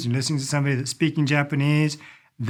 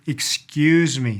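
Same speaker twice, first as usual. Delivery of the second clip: slow teaching read; much slower than usual. Shown as a demonstration. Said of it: "really just a way of saying".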